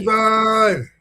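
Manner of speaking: high, thin puppet frog voice; Kermit the Frog. Retold or imitated. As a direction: call out like a cartoon frog. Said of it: "it's Kermit the Frog's voice".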